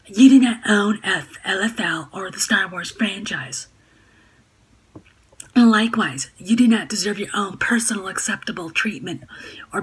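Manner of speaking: snide, sneering read of her tweets; snarky hag voice. Retold or imitated. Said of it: "Snarky feminazi, hag voice".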